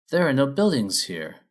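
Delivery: a lightly voiced princess turning up her nose; mild sniff of disdain; sniffy. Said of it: "she said with a sniff".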